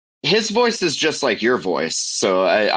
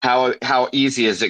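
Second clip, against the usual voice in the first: imitating Jacob, pitched higher at the start; Jacob impression; 4 semitones higher than usual. The speaker playing devil's advocate as Jacob, higher-pitched impression. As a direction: slip into Jacob's voice to argue the other side. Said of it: "How do you do Jacob's voice so good?".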